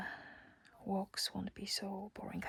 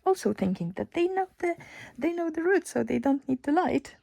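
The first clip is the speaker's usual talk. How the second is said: excited; 9 semitones higher, 10 dB louder than usual. Real, not acted. Excited retelling, high and loud.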